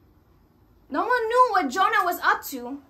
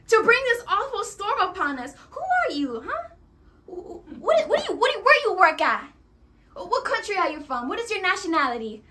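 panicked sailors; 3 semitones higher, 3 dB louder than usual. Acted. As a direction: interrogate him in a panic. Panicked sailors interrogating Jonah.

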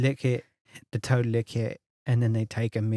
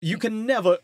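high, haughty aristocrat voice; lofty mock-aristocratic boast; posh Lushington; 8 semitones higher than usual. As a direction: preen as an absurdly grand Lushington.

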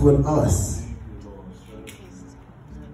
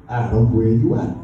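gentle; 8 semitones lower than usual. Shown as a demonstration. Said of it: "In a nice way".

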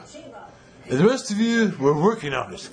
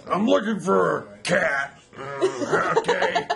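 bug guy impression; 5 semitones higher, much slower than usual. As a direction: play the bug wearing a human suit, slowly. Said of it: "I feel like the guy with the bug from Men in Black".

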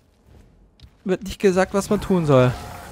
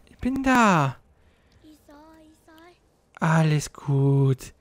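coaxing; slower than usual. Real, not acted. Coaxing scared creature onward.

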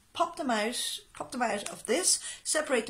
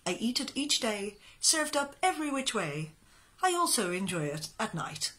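reciting a comic poem; poem reading. Acted. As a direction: read it like a light verse recital. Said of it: "I'm gonna read you a poem".

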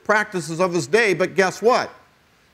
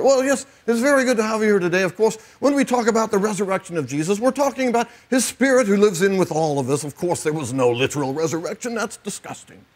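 mock a liberal British cleric; British accent; 3 semitones higher than usual. Mocking a liberal Easter preacher in a British accent. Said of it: "you have to do this with a British accent".

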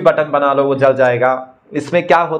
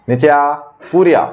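mock command; 3 dB louder than usual. Commanding the magic ball.

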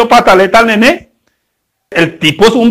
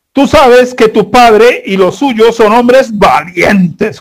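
emphatic reading; much slower than usual. Acted. Reading scripture quote emphatically.

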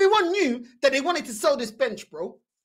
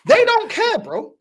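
They don't care, punched higher and louder; loud retort; 7 semitones higher, 5 dB louder, slower than usual. Real, not acted. Repeated line, shouted take.

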